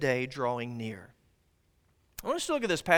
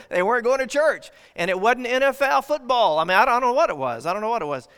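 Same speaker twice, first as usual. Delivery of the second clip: emphatic preaching; 5 semitones higher, 7 dB louder than usual. Real, not acted. Preacher building to emphatic point.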